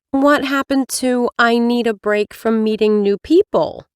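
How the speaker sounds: lightly voiced chipper receptionist; bright professional phone greeting, lightly voiced; dating specialist. Same specialist voice.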